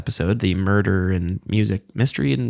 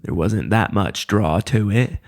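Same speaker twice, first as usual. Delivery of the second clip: slow, heavy Southern drawl; exaggerated Southern accent, drawn out; slower than usual. Shown as a demonstration. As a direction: overdo a Forrest Gump-style Southern accent, slowly. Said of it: "undereducated Southern accent, uh, that was inspired by Forrest Gump".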